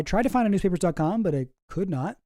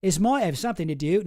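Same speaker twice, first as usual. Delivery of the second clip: Australian accent attempt; 3 semitones higher than usual. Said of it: "I'll give it one more try".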